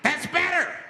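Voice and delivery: high, loud self-satisfied voice; smug flasher. Acted. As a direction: purr it like a pleased captor.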